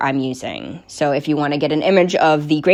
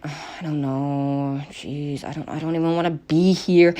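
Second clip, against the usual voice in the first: fed up; 5 dB quieter than usual. Retold or imitated. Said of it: "he doesn't even wanna be there".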